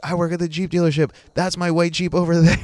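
hammed-up proud hostess showing off her Jeep; thrilled bragging.

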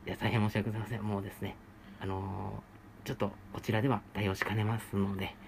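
soft, polite apologetic clerk; low, humble shop clerk apology; customer service voice. Acted.

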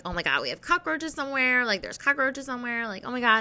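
mildly panicked retelling, pitched a bit up; imitating your own worried fretting; retold freak-out. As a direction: replay a small burst of alarm. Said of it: "I started freaking out".

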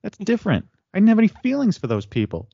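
Jerry's retort. Retold or imitated. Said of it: "when Jerry's like".

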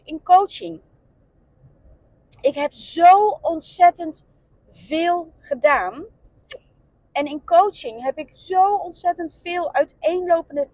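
hiccups breaking the words. Real, not acted. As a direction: keep talking through hiccups. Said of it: "oh, ik heb echt heel erg de hik". (met de hik)

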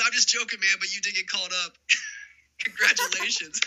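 laughing reveal. Retold or imitated. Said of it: "He goes".

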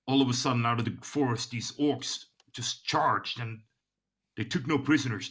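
shaken report. Acted. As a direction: stumble through the bad news to a superior. Shaken guard reports massacre to superior.

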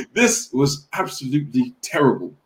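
a hint of a gruff chef, laughing through it; half-hearted celebrity chef impression; lightly voiced Gordon Ramsay. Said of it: "the Gordon Ramsay".

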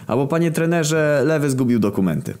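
high-pitched apologetic excuse; player explaining to coach. Acted. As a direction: pitch up, like a pupil owning up.

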